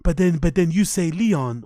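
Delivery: lightly imitated foreign-English accent; mimicked put-on accent. Host mocking the interviewer's speech, put-on accent. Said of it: "why do they put on that accent".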